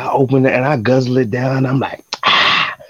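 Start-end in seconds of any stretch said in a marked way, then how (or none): 0.0-1.7 theatrical enthusiasm. Retold or imitated. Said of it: "really enthused and theatrical". 2.2-2.8 louder, higher mock delight over the water; theatrical delight. Carrier on TikTok hamming up how good the water is, theatrical. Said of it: "really enthused and theatrical".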